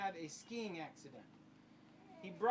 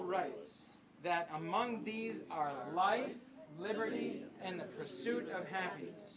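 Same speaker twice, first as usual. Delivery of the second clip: solemn recitation; slower than usual. Acted. Reads the Declaration aloud.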